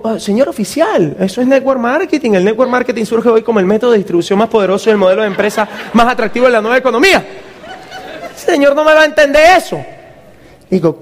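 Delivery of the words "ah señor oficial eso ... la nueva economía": mock sales pitch. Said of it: "¿Cómo yo le digo".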